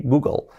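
Google ending in a barely pronounced L; English "GOO-gol"; light final L. Shown as a demonstration. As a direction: let the L of Google almost vanish. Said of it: "está muy ligera ahí".

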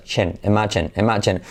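"imagine" with a voiced English j; voiced "chen". Shown as a demonstration. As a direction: buzz the cords on the "chen" of "imagine". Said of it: "pero activando las cuerdas".

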